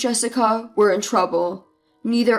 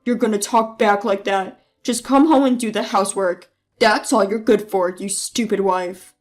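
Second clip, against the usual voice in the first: abusive husband; 4 semitones lower than usual. Acted. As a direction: spit it at her like a domineering husband. Husband verbally abusing wife.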